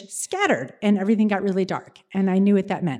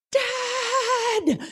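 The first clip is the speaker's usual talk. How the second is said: very high cry across the water; desperate call; 14 semitones higher than usual. Retold or imitated. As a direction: yell for dad as the boat leaves. Left behind in the ocean.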